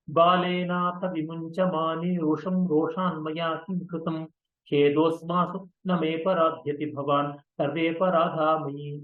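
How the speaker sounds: rapid, rhythmic Sanskrit chant; verse recitation. Acted. Teacher reciting the Sanskrit poem to the class, fast metrical chant. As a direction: rattle the verse off in one breath.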